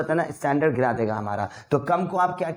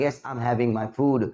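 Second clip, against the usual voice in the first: slow demo; much slower than usual. Shown as a demonstration. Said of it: "बोलते हैं ना हम लोग कि".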